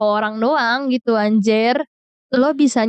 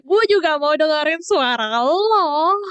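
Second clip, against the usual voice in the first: slow, higher, dreamy inner voice; inner voice, drawn out; 5 semitones higher than usual. Retold or imitated. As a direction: stretch it out slowly like a secret wish. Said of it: "Dalam hati gue". (suara hati yang pelan dan melayang)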